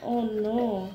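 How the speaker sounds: mild, drooping oh-no voice; acted sadness. Shown as a demonstration. Mother acting out sad for her child, mildly mournful. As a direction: commiserate in pretend sadness. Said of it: "what about sad?".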